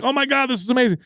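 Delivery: light, high gasp of a lucky winner; imitated amazement. Gambler reacting to winning at dice, amazed.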